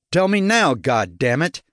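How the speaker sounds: high burst of anger, falling away on the curse; angry demand. Acted. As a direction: demand it now, exasperated. Furious demand about kidnapped Leslie.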